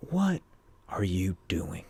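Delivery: hushed, halting question from dad; disappointed father. Retold or imitated. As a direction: drop to a low whisper, acting the dad. Ghost father questions his son.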